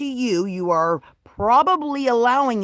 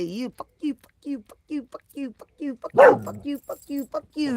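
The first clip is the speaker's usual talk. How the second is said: mock flipping off. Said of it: "I did it with double hands".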